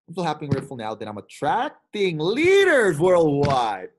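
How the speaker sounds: the affirmation called out with conviction; proclaimed affirmation. Retold or imitated. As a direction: build to a proud declaration. Message climaxes, proclaimed.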